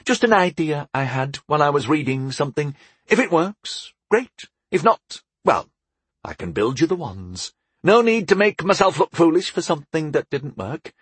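a hint of a cagey young spellcaster; lightly voiced young enchanter. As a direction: lightly play an enchanter hedging on his idea.

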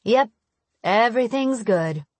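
lightly forced reassurance; a touch of false brightness; forced cheer. Acted. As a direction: put on a smile that isn't quite real. Smile that doesn't quite reach her eyes.

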